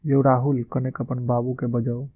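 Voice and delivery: calling out. Shown as a demonstration. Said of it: "Maithili में बोलेंगे तो किस तरह से बोलेंगे".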